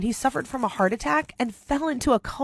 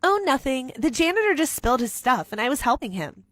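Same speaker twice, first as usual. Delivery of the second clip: fake angel; 3 semitones higher than usual. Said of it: "transformed into an angel".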